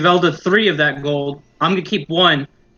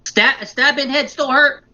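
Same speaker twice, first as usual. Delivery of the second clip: goblin voice; 4 semitones higher, slower than usual. Acted. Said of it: "be like".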